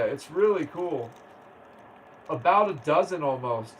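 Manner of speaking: normal talking voice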